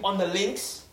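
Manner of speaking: mock posh British accent. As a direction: play a posh British fella. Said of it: "saying posh fella".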